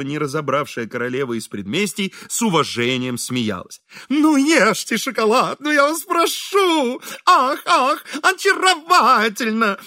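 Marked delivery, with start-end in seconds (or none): 4.1-9.8 high, slow, fluttering gush; gushing flattery. A narrator's reading. Fawning host gushing high to his guest. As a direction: coo over her like a fawning host. Изнуренков gushes over the queen.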